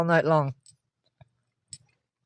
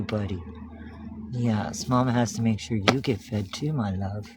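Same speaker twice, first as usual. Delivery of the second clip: soothing pet talk; 4 semitones lower than usual. Real, not acted. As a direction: settle the cat down gently. Soothing cats while feeding.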